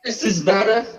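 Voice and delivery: hollow, echoing, like in a cave; talking from inside a cave. Real, not acted. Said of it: "You sound like you're in a cave".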